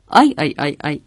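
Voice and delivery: low repeated ow-ow of dizziness; dizzy moaning. Acted. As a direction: groan as if the head is spinning. Lizard gets dizzy on the flight.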